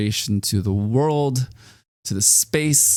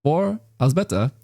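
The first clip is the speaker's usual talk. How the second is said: podcast sign-off; 3 semitones higher than usual. Real, not acted.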